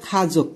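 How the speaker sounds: খাজক opened with aspirated kh; corrected pronunciation. Shown as a demonstration. Teacher gives learners the corrected word, খাজক with aspirated kh. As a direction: say খাজক with a puffed kh. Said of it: "এটা সঠিক উচ্চারণ হয়ে যাবে".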